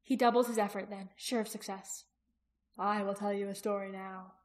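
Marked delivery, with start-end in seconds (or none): 2.8-4.3 steady, unvarying soothing tone; even voice. A narrator's reading. Jaqen soothing the dragon with a story, even voice. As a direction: keep it level and calm. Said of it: "his voice even".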